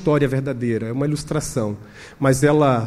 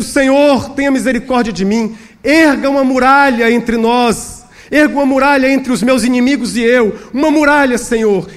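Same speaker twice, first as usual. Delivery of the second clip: higher-pitched, crying out to God; pleading prayer; 9 semitones higher, 6 dB louder than usual. Acted. Hiding pastor begs God for a wall, pleading. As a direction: beg God urgently for protection. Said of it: "ele ficou ali clamando, orando incessantemente".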